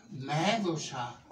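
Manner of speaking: Μέδουσα stretched slowly, the last a held long; drawn out slowly. Shown as a demonstration. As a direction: savour the name Μέδουσα slowly. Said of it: "Με λένε".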